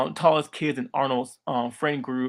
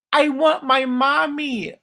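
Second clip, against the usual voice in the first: loud, high, slow wail; hammed-up cowardly whine, stretched out and high; crying for mommy; 11 semitones higher, 5 dB louder than usual. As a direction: bawl for your mother like a scared kid. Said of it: "he'll always cry to his mom".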